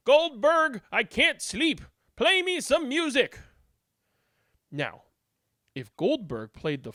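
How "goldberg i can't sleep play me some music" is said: rich dude. Acted. Rich dude demands music.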